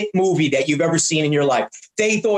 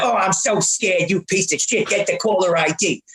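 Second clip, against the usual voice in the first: mock scared. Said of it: "I had a little fun with him".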